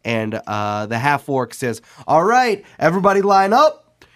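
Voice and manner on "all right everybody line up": louder, higher command; boss calling out. Acted. Half-orc boss ordering the cooks to line up, loud. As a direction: call the kitchen to order.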